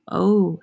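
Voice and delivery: "oh" as a long, full O; long O sound. Shown as a demonstration. Teacher summing up the week's phonics, "oh" sounded distinctly. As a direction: sound out "oh" like the letter's name. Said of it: "and the long O".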